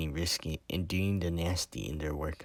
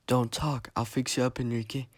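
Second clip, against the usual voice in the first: urgent reassurance; 7 semitones higher than usual. A narrator's reading. Gio tends to dying Enrique.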